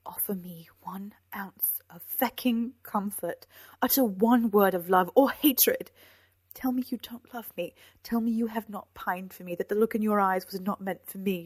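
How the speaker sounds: loud, pleading challenge; heated, emphatic appeal; impassioned demand. A narrator's reading. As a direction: demand an answer with force. She demands love or hatred.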